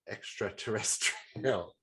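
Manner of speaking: slow, careful extraterrestrial; sounding out words. Real, not acted. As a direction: extraterrestrial said slowly syllable by syllable. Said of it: "It's a really hard word to say".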